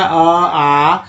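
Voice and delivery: ई ई drawn out slowly, one sound at a time; slow vowel demo. Shown as a demonstration. Teacher listing vowel sounds for students, slow and drawn out. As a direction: stretch each ई out for the class. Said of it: "पांच तरह से उच्चारण होता है".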